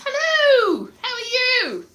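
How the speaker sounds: high, loud cheery hello; sing-song welcome to viewers; excited greeting. Real, not acted. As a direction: call out a bright hello to the chat. Greeting the chat warmly.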